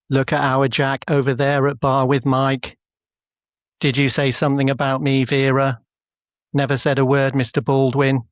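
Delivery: lightly voiced northern English soap characters; a hint of a Coronation Street regular; Coronation Street impression. Doing Coronation Street characters for the AI, lightly northern. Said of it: "What was that? It was Coronation Street".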